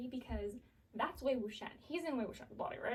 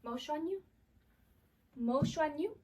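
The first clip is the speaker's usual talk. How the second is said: ghostly voice; 2 semitones higher, 3 dB louder than usual. Retold or imitated. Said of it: "this ghostly apparition voice be like".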